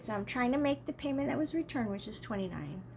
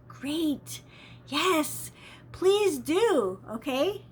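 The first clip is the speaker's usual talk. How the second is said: eager agreement; 5 semitones higher, 3 dB louder, much slower than usual. Retold or imitated. Eager reply to transfer offer.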